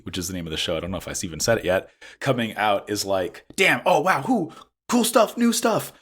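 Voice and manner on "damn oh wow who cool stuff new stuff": high-pitched, wowed outburst; excited reaction. Acted. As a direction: gush like an amazed fan. Acted excited reaction to new show.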